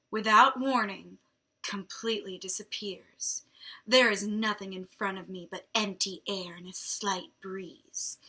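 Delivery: dramatic read-aloud, dropping to a hush; story narration. A narrator's reading. Reader performing a vampire novel aloud, dramatic story narration.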